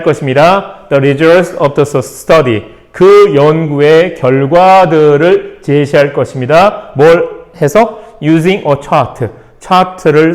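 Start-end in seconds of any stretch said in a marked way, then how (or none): 0.9-2.6 teacher reading to the class for learners, very slow and clear; slow model reading. Shown as a demonstration. Teacher reading an example sentence to students, slow and clear. 8.2-9.3 teacher reading to the class for learners, very slow and clear; slow model reading. Shown as a demonstration. Teacher reading an example sentence to students, slow and clear.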